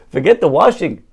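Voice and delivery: mock outrage bursting out; exasperated rabbi. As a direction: brush it aside in comic exasperation. Rabbi's outburst in a joke.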